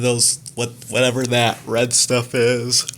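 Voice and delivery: talking through a yawn; words stretched by a real yawn. Real, not acted. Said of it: "I'm sorry for yawning".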